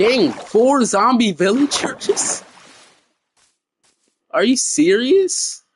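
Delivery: incredulous tone, voice breaking partway through. Lost without a map, spotting four zombie villagers, voice cracking. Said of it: "That was a crazy voice crack".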